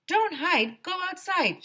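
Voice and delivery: high, loud chant; kid shouting. A narrator's reading. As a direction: call it out proudly. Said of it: "shouted Alexia".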